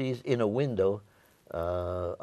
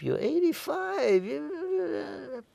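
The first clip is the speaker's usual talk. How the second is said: very high mock-fretful relatives; high, drawn-out mimicked objection; protesting family; much slower than usual. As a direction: imitate the family wailing in protest. Family protesting to old father.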